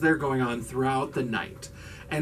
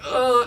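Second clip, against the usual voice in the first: higher, short "ugh" of pain; mock pained grunt; 8 semitones higher, 3 dB louder than usual. Retelling how Skip gets stabbed, mock pained grunt. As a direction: play-act taking a stab wound. Imitates stabbed man falling.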